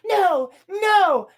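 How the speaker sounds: high, wailed "no, no"; hammed-up dismay; mock distress. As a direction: imitate a distraught girl. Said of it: "and she's like".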